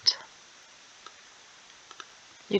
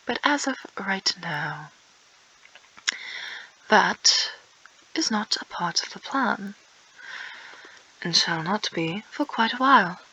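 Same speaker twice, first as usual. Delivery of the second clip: put-on British accent. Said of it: "Why am I speaking in this British accent?".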